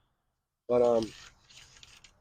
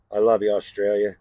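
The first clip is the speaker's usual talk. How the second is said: louder, proud call to Australia; loud affectionate shout-out; 7 dB louder, faster than usual. Real, not acted. Signing off the vlog, loudly hailing Australia. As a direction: call it out to the whole country.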